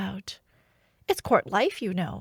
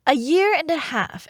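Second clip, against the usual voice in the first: amazed; 6 semitones higher, 7 dB louder than usual. Acted. Amazed confirmation, louder.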